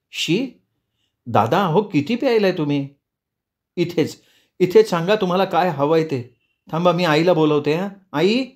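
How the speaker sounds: put-on high, worried girl's voice; disgusted, alarmed young woman. Priyanka stalling a drunk man and calling for mother, high and alarmed. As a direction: pitch it up, uneasy and pleading.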